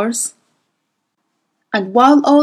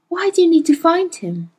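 higher, playful, coaxing woman's voice; Mrs Coulter, teasing; 8 semitones higher than usual. A narrator's reading. Mrs Coulter teasing Carlo into telling, high and playful. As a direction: tease him up high, insisting sweetly.

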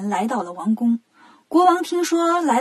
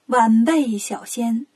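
posing deity; much slower than usual. Acted. 悟空装三清对道士说话, slow and stately. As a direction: stretch the words out like a statue speaking.

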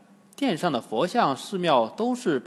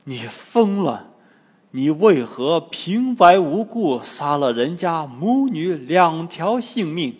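scolding shout; 2 semitones higher, 7 dB louder than usual. A narrator's reading. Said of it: "被唐僧喝住".

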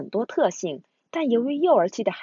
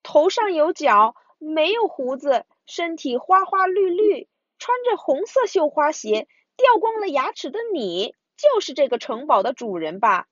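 higher, sure of the answer; confident; 6 semitones higher than usual. Acted. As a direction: announce it with confidence. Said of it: "信心满满地说".

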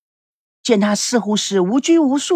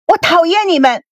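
weary resentment; 7 semitones higher than usual. A narrator's reading. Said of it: "几乎用厌倦的声音说".

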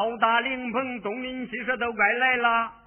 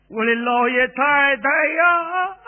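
slow, loud wail for the dead masters; keen over them, drawn out; wailing lament; 4 semitones higher, 5 dB louder than usual. Acted. Servant wails for dead masters. (拖腔哭喊)

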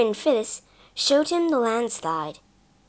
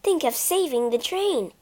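imploring; 4 semitones higher than usual. Acted. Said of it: "Bobby implored".

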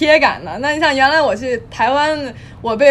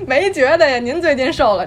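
higher, louder, sassy retort; sassy comeback; 4 semitones higher, 5 dB louder than usual. Retold or imitated. Girlfriend bantering back at the husband, louder and sassy. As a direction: fire back with mock sweetness. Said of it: "那姑娘就说".

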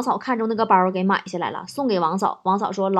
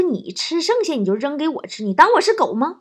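raised-pitch indignant question; displeased; 5 semitones higher than usual. Acted. Husband thrown a half-eaten peach by his wife, displeased. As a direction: act out an offended husband's objection. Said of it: "老王当时就不乐意了".

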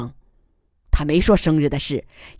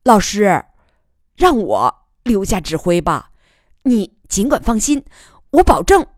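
tentative pleading; 3 semitones higher than usual. Acted. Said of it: "仍试探地说".

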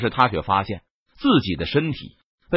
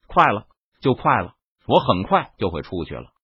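low deep voice; 4 semitones lower than usual. Acted. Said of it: "低沉着声音道".

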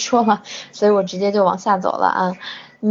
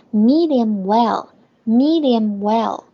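slow model phrase; much slower than usual. Shown as a demonstration. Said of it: "所以叫medium well".

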